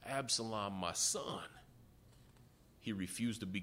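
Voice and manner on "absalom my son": the king weeping for his son; grieving father. Retold or imitated. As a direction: lament for a lost son, voice rising then sinking. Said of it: "David cried for his son".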